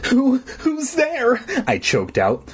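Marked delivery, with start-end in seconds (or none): 0.1-1.4 hushed whisper. Acted. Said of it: "my voice a hushed whisper".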